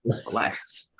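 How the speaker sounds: whispered plea to calm down; retold whisper. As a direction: whisper it, hushing a companion. Hushing girlfriend outside the theater.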